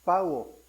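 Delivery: "pauo" said carefully as PA-U-O, two syllables; teaching the Greek word "pauo" syllable by syllable. Shown as a demonstration. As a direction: pronounce "pauo" slowly and clearly for the congregation. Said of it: "El término terminó en griego es".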